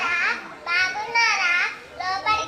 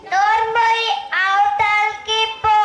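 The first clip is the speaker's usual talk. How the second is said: angry rebuke. Acted. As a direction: bark her out of the way. Mother-in-law silences daughter-in-law. (కోపంగా గద్దించడం)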